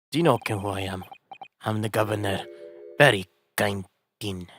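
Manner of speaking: a haughty Scottish prison governor; Scottish accent. Acted. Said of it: "Oh, you're Scottish".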